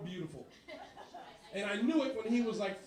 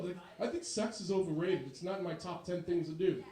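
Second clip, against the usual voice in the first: low, formal son voice; stiff nerdy son; 6 semitones lower than usual. Retold or imitated. Son calling his dad, low and overly proper.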